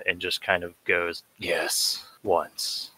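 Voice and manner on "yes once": quiet answer. Acted. Lucius answers the siren.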